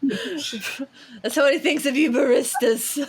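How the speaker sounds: slow, amused teasing; laughing. Real, not acted. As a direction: tease through laughter. Teasing laugh at barista quote.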